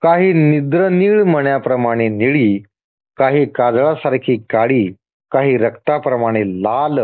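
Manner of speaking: deliberate list, a pause after each item; measured scripture reading. Acted. God listing his many forms to the devotee, measured reading. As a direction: read it out phrase by phrase.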